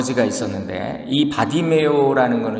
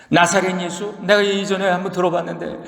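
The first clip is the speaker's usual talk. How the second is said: astonished; 4 semitones higher than usual. Acted. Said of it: "이렇게 이제 놀란 거예요".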